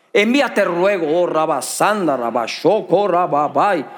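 slow, lightly hammed-up holy gibberish; mock spiritual tongues. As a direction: parody a pious prayer in fake tongues. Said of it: "ahí se pone espiritual".

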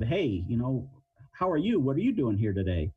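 bright rising greeting; first take. Shown as a demonstration. Showing a listener a cheerful hello. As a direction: lift up friendly on how are you. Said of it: "with just voice inflection and body language".

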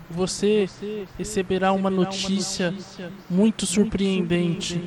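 prophesy like a spirit; voice from beyond. Shown as a demonstration. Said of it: "eu posso fazer uma voz do além".

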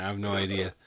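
mumbling after a few drinks. Real, not acted. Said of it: "I'm hammered".

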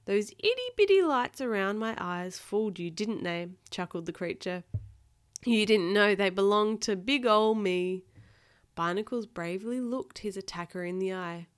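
put-on reading to a child. A narrator's reading. Parent reading Octonauts aloud to a child, lively storytelling. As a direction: act out each exclamation for a small listener. Reads picture book to child.

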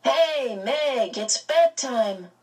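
a twin's cross call. A narrator's reading. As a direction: scold her across the lawn. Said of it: "Dennis's voice came crossly".

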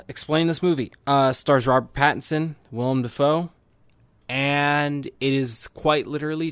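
lightly voiced pirate; a hint of hammy pirate. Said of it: "I just use my pirate voice".

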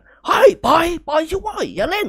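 put-on struggling old man begging; strained high yelling; pleading shout. A narrator's reading. Old man being choked.

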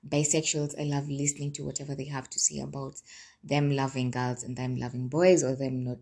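rough just-woke-up voice; groggy gravelly morning voice. Real, not acted. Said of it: "I'm so sorry, guys, about my voice".

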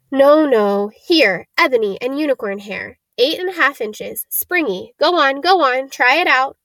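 a hint of an eager shopkeeper; mildly insistent, lilting patter; lightly voiced old wandmaker, urging. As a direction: urge the customer to try another, lightly in character.

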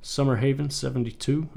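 weather report read; news anchor voice. Pretend. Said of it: "I sound like a news anchor".

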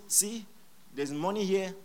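con artist's pitch. Retold or imitated. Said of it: "a con artist comes at you and just says".

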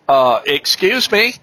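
retold incredulous reply; taken aback. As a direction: balk at a shady offer, slowly. Taken aback by mechanic's veiled offer.

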